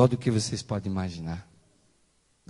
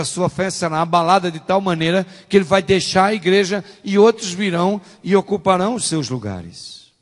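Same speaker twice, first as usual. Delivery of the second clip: high, loud pulpit warning; full-force preaching; 6 semitones higher, 10 dB louder than usual. Real, not acted. (pregação inflamada, em voz alta)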